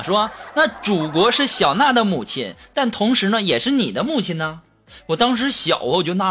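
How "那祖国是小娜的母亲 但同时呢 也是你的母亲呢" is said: acted teacher gently reasoning; mildly mock-solemn teacherly advice; earnest, patient explaining. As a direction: explain it earnestly to a small child. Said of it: "语重心长地说".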